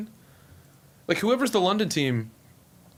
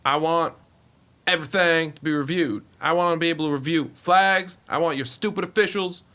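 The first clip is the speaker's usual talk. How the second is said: lightly voiced blustering team owner; a hint of a folksy, insistent owner; Jerry Jones impression; 2 semitones higher than usual. Team owner lecturing the commissioner at a meeting, lightly put-on owner voice. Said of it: "the Jerry Jones wasn't bad".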